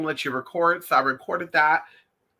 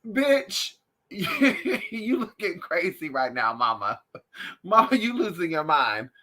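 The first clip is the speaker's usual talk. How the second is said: laughing dog voice. Retold or imitated. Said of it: "He giving that look like".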